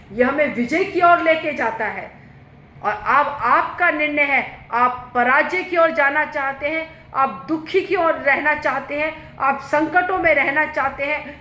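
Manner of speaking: high, insistent preacher's challenge; forceful preaching. Real, not acted. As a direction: press the congregation point by point. (ऊँचे सुर में चुनौती भरा उपदेश)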